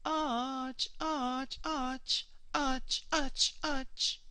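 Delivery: "arch" spat out short and high with a hissing end; clipped guttural chant syllable; quick harsh sound. Shown as a demonstration. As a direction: bark "Ach" quick and sharp, high pitched. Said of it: "It's a quick sound".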